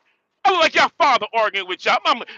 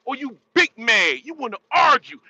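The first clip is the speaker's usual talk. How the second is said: mocking taunt; 3 semitones higher than usual. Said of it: "what did Ply say".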